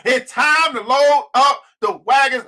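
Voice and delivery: slow, weighty call to action; telling a friend it's time to move; slow declaration. Retold or imitated. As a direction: lay each word down slowly. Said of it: "I said".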